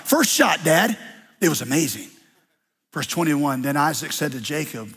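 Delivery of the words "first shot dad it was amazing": bragging son. Acted. Jacob boasting to father.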